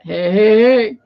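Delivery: a hint of a cartoon character's drawn-out call; Fat Albert. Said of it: "Fat Albert".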